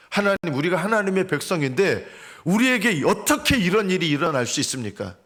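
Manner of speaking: acted cry of complaint; crying out to God. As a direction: cry out as an aggrieved people. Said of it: "이렇게 부르짖은 거예요".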